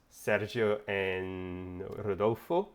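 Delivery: names said slowly with Spanish vowels; Spanish-style Sergio and Rodolfo; Spanish accent. Shown as a demonstration. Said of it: "their name in Spanish accent".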